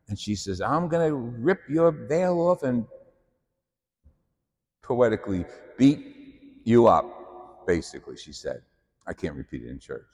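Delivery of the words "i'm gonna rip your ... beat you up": high, raging threat in a put-on voice; berserk mother. Sicilian mother threatening the nun, higher in mock rage. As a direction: explode at the nun, pitch way up. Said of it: "She went berserk".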